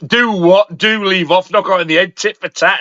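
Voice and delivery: lightly put-on Cockney patter; Cockney impression. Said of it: "I've never heard a Cockney say it".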